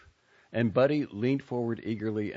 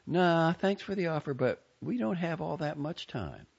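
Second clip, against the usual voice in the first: put-on a higher young woman's voice, politely firm; tight polite refusal; 11 semitones higher than usual. A narrator's reading. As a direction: turn him down with a tight smile.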